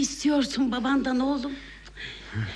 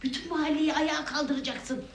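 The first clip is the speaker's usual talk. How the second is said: urgent, softer plea to keep quiet; hushed pleading; 5 dB quieter than usual. Acted. Mother afraid he'll wake the neighbourhood, hushed pleading. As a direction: beg him under your breath.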